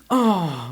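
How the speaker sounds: hammed-up gasp of shock; mock shocked gasp. Imitating someone at the box, mock shock. Acting out movie character's shock.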